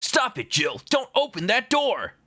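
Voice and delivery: hammed-up villain yelling at Jill; Wesker impression. Streamer doing Wesker warning Jill, hammed-up. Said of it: "Should I do Resident Evil one Wesker?".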